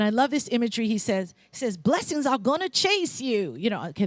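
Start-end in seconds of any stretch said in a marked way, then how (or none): 1.8-3.6 attempted country accent, a little higher and slow; half-hearted country twang, drawn out. Preacher quoting Joel Osteen to the congregation, clumsy country accent. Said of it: "that's not a good accent".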